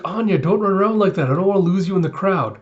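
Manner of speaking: a touch of motherly urgency; worried mother's warning. Retold or imitated. Mother warns child about getting lost in the crowd, mild scolding.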